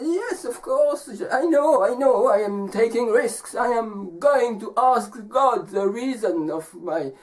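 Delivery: high, emphatic storybook man; man answering. Acted. Man explaining his risky journey to the wolf, high and insistent. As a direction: voice an insistent man, pitch starting high and settling. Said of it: "And the man says".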